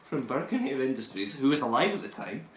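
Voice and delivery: lightly voiced Scottish villain, indignant; Burke the bodysnatcher. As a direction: defend the grave-robbing business with mock pride. Keeps playing Burke the bodysnatcher.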